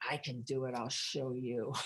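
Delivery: soft, low determined vow under the breath; quiet defiant inner vow. Retold or imitated. Retelling her defiant inner vow, quiet and low. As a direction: say it quietly to yourself, low and stubborn. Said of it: "And I thought".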